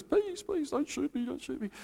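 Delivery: hammed-up terrified soldier begging; mock surrender plea. Mocking a war-movie soldier waving the white flag, pleading. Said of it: "the white flag of surrender in war movies".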